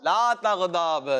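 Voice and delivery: لا تغضب drawn out slowly, sound by sound; spelled-out pronunciation. Shown as a demonstration. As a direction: slowly join the syllables of لا تغضب for learners. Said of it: "میں آپ کو بتاتا ہوں".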